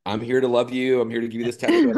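lifted, lightly voiced caring artist; tattoo artist's gentle voice. Artist telling the client to pause, lightly voiced. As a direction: play the kind artist easing off.

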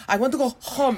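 mock pleading. Mimicking a celebrity begging paparazzi to stop following her, mock pleading. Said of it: "pleading with the paparazzi".

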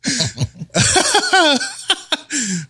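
high, drawn-out laughing fit; long laugh. Real, not acted. Friend hears the styrofoam cake punchline, laughing hard. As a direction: burst into high, helpless laughter.

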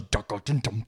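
sung-out dun dun dun; hummed jingle. Retold or imitated. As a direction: hum the podcast jingle. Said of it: "the little music goes".

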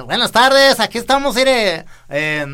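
put-on loud, high rural old man; old man from Jalisco. Shown as a demonstration. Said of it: "me hago ese viejito".

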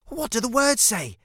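put-on high-pitched child's call; calling back. A narrator's reading. Cece asking Jackson about the words, calling back. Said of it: "Cece called back".

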